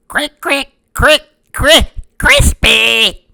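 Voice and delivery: very high clucking hen; pecking hen voice. Acted. Red hen pecking her matzah, high clucking voice. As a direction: peck out each crick like a hen. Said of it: "The red hen pecked".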